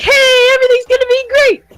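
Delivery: very high, loud, encouraging cheering shout. A player's character calls to a companion from outside the tavern, shouting really loud. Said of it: "then I shout really loud".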